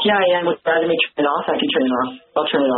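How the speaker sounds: speakerphone echo; talking through a tin can on speakerphone; tin can phone. Real, not acted. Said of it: "are you using your speakerphone".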